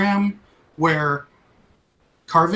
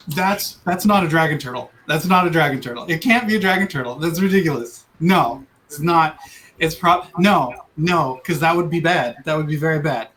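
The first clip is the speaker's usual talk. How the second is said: nervous, insistent denial, hitting not; in-character denial; 3 semitones lower than usual. Acted. Player's character to the party, nervously denying the dragon turtle. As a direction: talk yourself out of the danger. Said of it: "Why would you say that in that particular way?".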